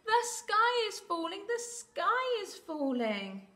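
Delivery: high, loud panicked bird squawk. Acted. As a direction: squawk the alarm like a frantic chick.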